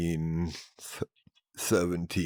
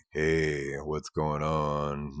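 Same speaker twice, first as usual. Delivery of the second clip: deep voice; 3 semitones lower, 4 dB quieter, much slower than usual. Shown as a demonstration. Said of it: "if I really want to".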